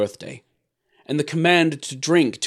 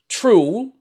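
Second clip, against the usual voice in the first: relieved; 11 semitones higher, 7 dB louder than usual. A narrator's reading. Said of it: "as if much relieved by the suggestion".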